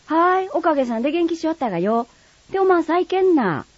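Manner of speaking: high, lively Kagoshima dialect neighbour. Acted. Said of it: "鹿児島弁は".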